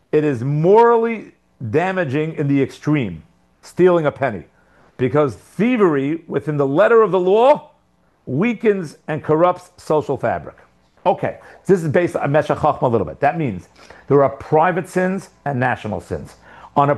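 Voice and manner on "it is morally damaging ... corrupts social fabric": slow, measured reading aloud; slow rereading. Real, not acted. Teacher rereads the commentary to his class, slowly. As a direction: read the quotation out slowly, phrase by phrase. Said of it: "Let me read this again slowly".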